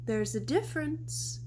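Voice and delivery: a gorilla soothing her sleepless friend, gently. Acted. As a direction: ease into it gently, like a mother. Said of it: "Stella says gently".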